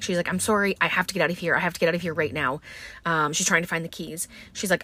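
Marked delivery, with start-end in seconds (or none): 0.3-2.6 fast, frantic pleading; a retold, hurried plea to leave. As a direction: rush it out in a panic. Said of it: "very frantic".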